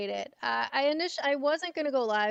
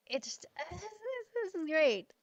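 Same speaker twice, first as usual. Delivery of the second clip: tag; 8 semitones higher, 3 dB quieter, slower than usual. Real, not acted. Laughs, overcome by her good week.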